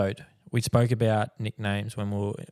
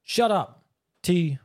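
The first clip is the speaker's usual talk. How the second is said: mocking high retort; 8 semitones higher, much slower than usual. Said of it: "he's like".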